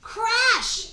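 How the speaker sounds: loud, high crash exclamation. A narrator's reading. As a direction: burst out with the impact. Collision in the story.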